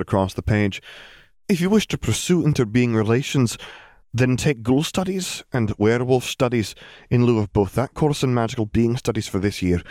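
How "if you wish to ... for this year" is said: businesslike teacher voice; walk her through it; brisk McGonagall. Acted. Headmistress explaining subjects to Hermione, brisk.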